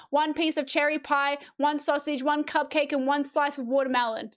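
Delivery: storybook read-aloud, rising as hunger builds; reading to children. Acted. Streamer reads The Very Hungry Caterpillar to chat, storybook voice. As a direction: read it like story time, lifting each still hungry. Reads Saturday food list.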